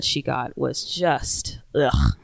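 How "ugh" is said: low groan of disgust. Real, not acted. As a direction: let out a short, low "ugh". Disgusted at the online abuse.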